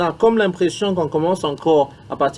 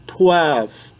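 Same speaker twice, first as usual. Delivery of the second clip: counting drill; much slower than usual. Shown as a demonstration. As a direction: count slowly and clearly, one number at a time. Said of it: "On va recommencer une fois de suite". (compter lentement pour la classe)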